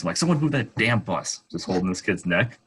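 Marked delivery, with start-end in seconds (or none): 0.2-1.4 higher, fed-up snap; urgent and irritated; exasperated. Retold or imitated. Frustrated while holding kid's neck.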